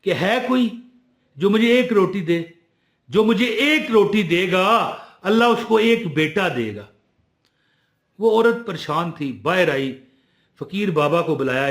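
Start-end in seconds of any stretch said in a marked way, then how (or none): 0.1-6.9 fakir calling out, slightly raised; mildly projected beggar's call. Acted. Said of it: "फकीर की आवाज बुलंद हुई".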